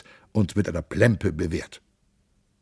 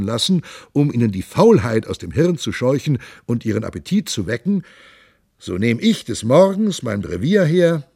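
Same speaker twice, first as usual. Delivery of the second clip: a lightly voiced boisterous monk, raised and lively; jovial monk; 2 semitones higher than usual. The monk boasts to his companions, hearty and raised. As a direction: play the hearty monk bragging about his nose.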